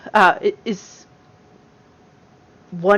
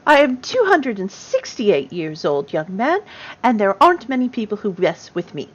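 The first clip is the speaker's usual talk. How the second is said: put-on determined old gnome grandmother; 5 dB louder than usual. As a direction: put the young man firmly in place. Plays 268-year-old gnome.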